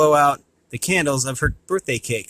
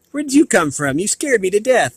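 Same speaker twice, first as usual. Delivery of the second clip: startled, higher and louder; 6 semitones higher, 3 dB louder than usual. A narrator's reading. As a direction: jump back in fright. Buffy startled by man.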